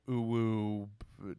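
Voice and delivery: slow, lightly put-on uwu baby voice; hint of cutesy baby talk; mock baby voice. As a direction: tease it like a cutesy anime girl. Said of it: "baby voice".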